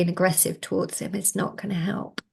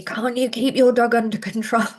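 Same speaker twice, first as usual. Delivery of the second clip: retold scream; 3 semitones higher, 4 dB louder than usual. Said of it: "other pet parents screaming at me".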